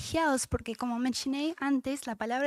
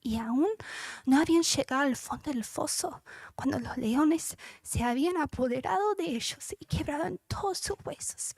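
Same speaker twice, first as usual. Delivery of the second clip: choked-up breathy reading; overcome, voice almost gone; moved to tears. Real, not acted. Preacher moved reading Daniel's rescue, choked whisper. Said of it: "Perdón que me emociono".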